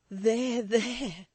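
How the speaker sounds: gentle soothing there there; calm her down. A narrator's reading. Florence soothing her sobbing maid. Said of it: "the soothing voice of Florence".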